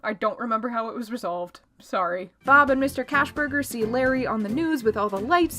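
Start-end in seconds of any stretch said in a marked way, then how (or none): 2.5-5.6 building excitement, high and loud; rising thrill toward the rescue; excited. Real, not acted. Excited recap of climax.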